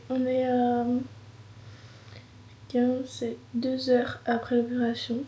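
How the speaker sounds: slurred, half-whispered through pain; after wisdom teeth. Real, not acted. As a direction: swollen jaw, barely moving the mouth. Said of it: "J'ai trop mal".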